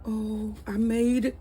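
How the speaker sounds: high, slow, proud delight; excited. Real, not acted. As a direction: savour it with thrilled pride. Proud of first sourdough.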